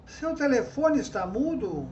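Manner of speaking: lightly declaimed verses; poem recital. Shown as a demonstration. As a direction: read the rhyme out to the class. Recites her example trova. (recitando a trova, levemente declamada)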